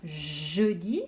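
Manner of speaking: "Jeudi" with a long "Jjj" at the start; "Jeudi", loud, first consonant drawn out; exaggerated first sound. Shown as a demonstration. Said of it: "on entend le je".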